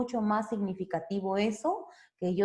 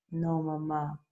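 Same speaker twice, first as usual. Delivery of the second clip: a hint of a sheepish child; lightly voiced child; 4 semitones lower, 4 dB quieter, slower than usual. Shown as a demonstration. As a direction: answer mom like a child. Child answering mother. (niño respondiendo, apenas actuado)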